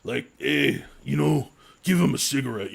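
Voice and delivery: a light take on a tough bounty hunter consoling a perp; lightly voiced biker-style mock sympathy; imitating Dog the Bounty Hunter. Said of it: "He's like".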